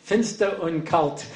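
slow, laughing phrasebook recital; mock-solemn Yiddish drill, very slow; slow textbook reading. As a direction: read it like a stiff language course, chuckling. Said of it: "I had this sense in it".

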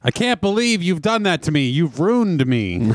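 hammed-up dramatic lament, slow end; mock wail. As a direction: play a wronged melodrama victim. Pun on runes, mock dramatic quote.

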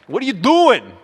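put-on high, loud German-accented outcry; comic German accent, voice leaping up; mock German accent. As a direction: scold like a German wife, hammed up. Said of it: "More of a German accent".

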